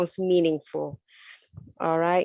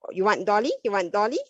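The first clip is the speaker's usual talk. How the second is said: put-on modelling for the child; 3 semitones higher, much faster than usual. Shown as a demonstration. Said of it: "you would say".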